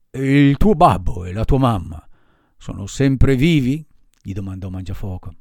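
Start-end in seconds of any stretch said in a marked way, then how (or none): 0.1-3.9 a louder, gruff showman asking; lightly gruff giant puppeteer; gruff puppet master. Acted. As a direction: grumble the question like a bearded ogre. Mangiafuoco voice held.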